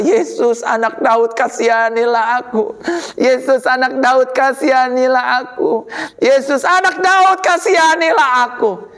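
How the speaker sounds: plea building into a high cry; Bartimeus's persistent pleading. Acted. Blind beggar refuses to give up calling Yesus, building plea. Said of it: "Bartimius gak mau menyerah".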